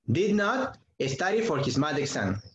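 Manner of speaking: slow, careful English with did not stressed; teacher modelling the negative sentence slowly; slow model sentence. Shown as a demonstration. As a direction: lay out each word slowly for students. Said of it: "Entonces, ¿cómo sería?".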